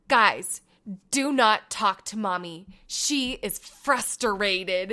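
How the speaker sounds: lightly voiced little girl, very slow; slow, solemn warning to siblings; kid's solemn warning. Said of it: "I hear her go".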